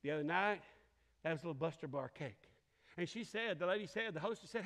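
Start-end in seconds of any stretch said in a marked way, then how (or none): 0.0-2.5 gentle Holy Spirit. Retold or imitated. Preacher voicing the Holy Spirit at his table, low and gentle. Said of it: "the Holy Spirit ... said".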